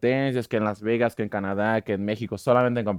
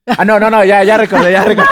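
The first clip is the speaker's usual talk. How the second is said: sudden realization; 7 semitones higher, 9 dB louder than usual. Real, not acted. Catches mistake in his story.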